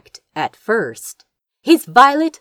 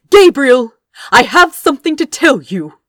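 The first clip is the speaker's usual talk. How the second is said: raised, insistent voice, higher and louder; yüksek sesle; 8 semitones higher, 7 dB louder, faster than usual. A narrator's reading. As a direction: call out loudly to get his attention. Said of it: "he said loudly".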